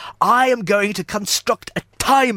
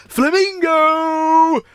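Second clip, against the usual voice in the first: calling out; 8 semitones higher, slower than usual. Acted. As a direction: call out across the house. Calling out for the flamingo.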